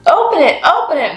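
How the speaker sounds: high, loud eager call; calling out eagerly. Acted. Martha urges Welcome to open the gift, eager call. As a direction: call out, urging him to open it. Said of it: "Martha called out".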